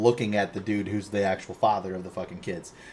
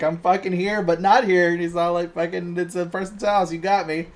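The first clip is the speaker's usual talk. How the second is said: higher, exasperated DeVito; DeVito impression; 9 semitones higher, 5 dB louder than usual. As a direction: grumble it as a lost Danny DeVito. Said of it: "He's like".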